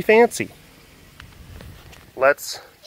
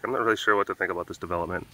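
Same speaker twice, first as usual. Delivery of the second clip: voicing the pet; 4 semitones lower, 5 dB quieter, much faster than usual. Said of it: "She's like".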